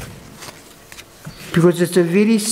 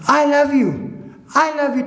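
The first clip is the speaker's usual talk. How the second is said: echoing voice; 6 semitones higher than usual. Retold or imitated. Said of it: "thing kept reverberating in the shed".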